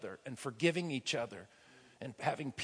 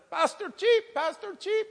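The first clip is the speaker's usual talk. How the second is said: high urgent call of a name. Retold or imitated. Runner calls the pastor's name urgently, calling out. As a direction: call him from across the garden. Someone comes running calling him.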